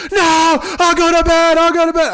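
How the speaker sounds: put-on high, loud, wailing little kid; imitating crying toddler. Dad mimicking his son crying to avoid the police. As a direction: whimper it like a toddler begging. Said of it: "He's like".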